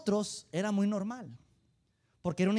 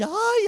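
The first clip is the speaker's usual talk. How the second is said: a single much higher, much louder ay; piercing mock cry; imitated church shriek; 14 semitones higher, 11 dB louder than usual. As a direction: let out the sister's sudden mock yelp. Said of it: "la que empezaba a gritar".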